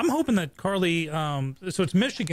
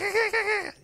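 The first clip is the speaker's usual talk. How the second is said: kookaburra laugh. Retold or imitated. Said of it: "you know, the Australian bird".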